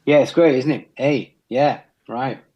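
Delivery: put-on light Kiwi accent, rising tune; a hint of a Kiwi accent, each phrase lifted like a question. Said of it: "they turn everything into a question".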